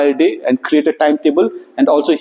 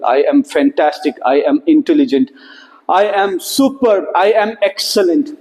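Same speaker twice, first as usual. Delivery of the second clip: affirmations; 3 semitones lower than usual. Shown as a demonstration. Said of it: "sending positive affirmations".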